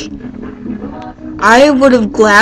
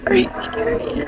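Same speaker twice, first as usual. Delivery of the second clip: breathless awe; 12 semitones higher, 10 dB quieter than usual. Retold or imitated. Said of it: "I was like".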